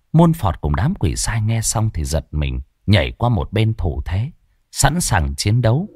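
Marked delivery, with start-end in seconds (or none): none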